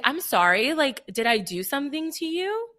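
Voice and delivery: retold disbelief, rising at the end; shocked. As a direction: act out being taken aback. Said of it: "I was, like, in shock".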